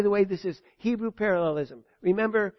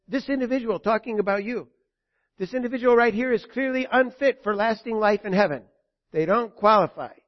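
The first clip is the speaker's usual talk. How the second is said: stern accuser; 3 semitones higher, 6 dB louder than usual. Acted. Soldier Truth accuses harshly.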